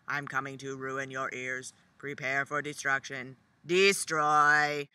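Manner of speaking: flat, low robotic rap; monotone robot voice. Retold or imitated. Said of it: "in this quite monotone voice".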